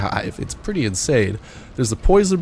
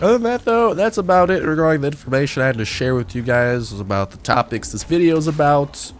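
stuffy, nasal voice with a cold; 5 semitones higher than usual. Real, not acted. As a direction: talk through a blocked nose. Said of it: "my nasally voice".

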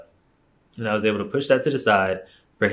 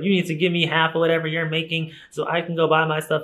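higher, mocking voice of the boyfriend; mocking boyfriend demand; 7 semitones higher than usual. Boyfriend demanding half her income, higher mocking voice. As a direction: parody his greedy demand, pitched up. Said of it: "He's like".

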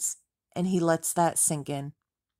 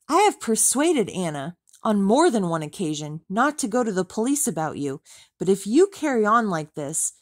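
higher, louder angry tirade; furious; 4 semitones higher, 4 dB louder than usual. Acted. Tom furiously warns Rachel off Anna, angry and loud. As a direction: tear into her, furious. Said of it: "He's furious".

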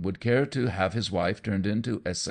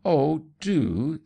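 high, loud, eager plea; earnest; 9 semitones higher, 6 dB louder than usual. A narrator's reading. Guest pressing Leonard to perform, earnest and eager. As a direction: beg him sincerely. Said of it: "said Mavis Pellington earnestly".

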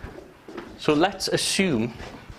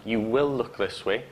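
command; 3 semitones lower than usual. Shown as a demonstration. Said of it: "One's a command".

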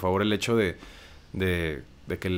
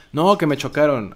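a louder, higher whiny "No, que me chocaron"; mock complaint; 6 semitones higher, 7 dB louder than usual. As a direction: play the victim who says someone hit him. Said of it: "no es el hecho de "me chocaron".

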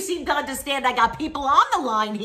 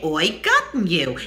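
cry of pain; 6 semitones lower, 5 dB louder than usual. Shown as a demonstration. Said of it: "I cried out in pain".

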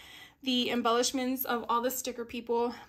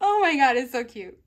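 excited squeal; 2 semitones higher, 12 dB louder than usual. Real, not acted. Gushing over cute sticker.

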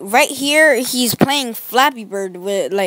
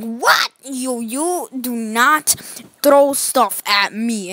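slow, deliberate telling-off; hammed-up slow warning; mock stern scolding; slower than usual. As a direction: spell out each word like a strict parent. The speaker scolding the thrower.

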